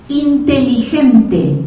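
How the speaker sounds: "Inteligente" with a Spanish jota h and a final e; Spanish "Inteligente", every vowel full; Spanish pronunciation. Shown as a demonstration. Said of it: "in English".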